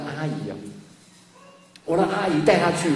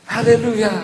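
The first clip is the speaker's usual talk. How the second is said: laughing hallelujah; 3 semitones higher than usual. Retold or imitated. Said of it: "心里面在那边".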